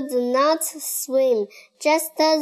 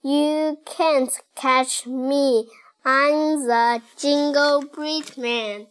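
lightly raised, taunting cookie voice; gingerbread man voice; 2 semitones higher than usual. Acted. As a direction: tease them as you run away. Gingerbread man taunting while fleeing.

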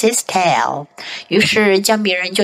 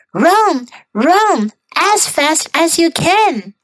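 gingerbread man voice; 7 semitones higher, slower than usual. Shown as a demonstration.

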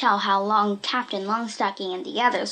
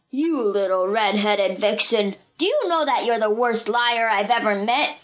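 angry. A narrator's reading. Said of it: "Buck was really angry".

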